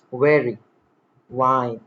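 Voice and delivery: "Wary", "Wine" said as "very", "vine", teeth on lip; V sound. Shown as a demonstration. Teacher showing V, carefully articulated. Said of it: "Touch top teeth gently".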